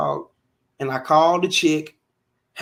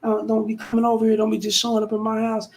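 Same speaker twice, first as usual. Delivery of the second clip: imitating the girlfriend; 6 semitones higher than usual. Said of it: "She gets on the phone".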